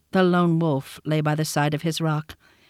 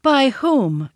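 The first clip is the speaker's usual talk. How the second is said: higher, louder snap back; sharp retort; 7 semitones higher, 4 dB louder than usual. A narrator's reading. Mowgli cutting off Shere Khan, sharp. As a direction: cut him off. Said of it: "said Mowgli".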